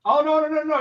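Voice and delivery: urgent no. Real, not acted. Interrupting to stop rating.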